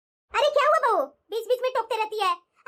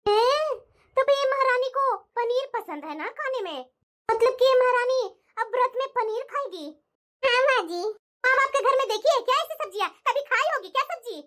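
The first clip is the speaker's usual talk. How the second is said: sarcastic taunt. Acted. Mother-in-law mocks bahu's wish.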